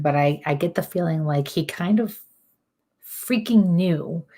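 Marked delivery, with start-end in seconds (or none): 3.1-4.2 "freaking knew" drawn out slowly, both words leaned on; slowed emphatic "freaking". Real, not acted. Medium relaying the spirit's irritation, slow stressed "freaking knew". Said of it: "I don't know why I have to say it like that".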